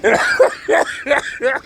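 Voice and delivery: short high cackle; high laugh. Real, not acted. Laugh after insult.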